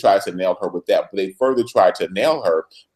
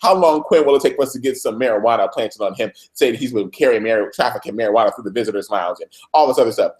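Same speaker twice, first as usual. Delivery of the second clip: mock tirade; faster than usual. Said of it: "Olivia is on a complete tirade".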